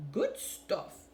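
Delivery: mock mouth-full mumble; understated mouthful mumble; mumbled through mouthful. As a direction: lightly imitate talking round a bite of pie. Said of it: "he mumbled through a mouthful".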